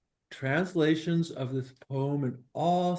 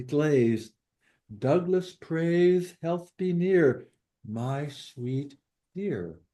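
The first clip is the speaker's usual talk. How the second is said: poem recitation. Acted. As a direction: recite short rhymed lines with a lilt. Reads translated poem aloud.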